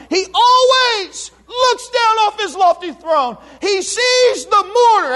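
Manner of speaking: fiery preacher; preaching at full force. Acted. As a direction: thunder it out to the church.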